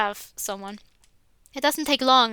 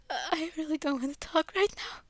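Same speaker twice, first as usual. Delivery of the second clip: put-on soft tearful girl; 4 semitones higher, 6 dB quieter than usual. Crying Yuri turns Max away.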